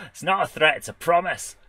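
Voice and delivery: mock threat in a gruff Scottish accent; lightly put-on gruff Scottish voice. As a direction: slip into a rough Scottish accent. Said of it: "that was in a gruff Scottish accent".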